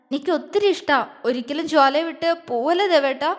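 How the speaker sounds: wife sobbing that she cannot live without him; sobbing plea. A narrator's reading. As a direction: beg him never to leave. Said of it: "അവൾ തേങ്ങിക്കൊണ്ട് പറഞ്ഞു".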